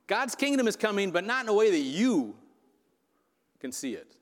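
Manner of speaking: Jesus challenging the Pharisees, rising then hushed; as Jesus might have said. Retold or imitated. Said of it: "how I think he might have said this".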